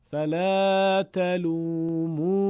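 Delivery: slow, sustained chanted reading; Quranic recitation. Shown as a demonstration. Teacher reads the textbook example, slow recitation. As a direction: draw the long vowels out evenly. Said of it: "مثالی که در کتاب هست".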